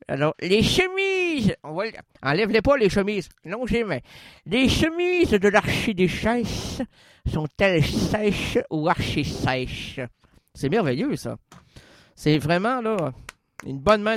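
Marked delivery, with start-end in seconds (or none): 4.4-10.0 over-articulated tongue twister; articulation intense. Shown as a demonstration. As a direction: spit out every consonant. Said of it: "pour prouver mon articulation la plus intense". (virelangue sur-articulé)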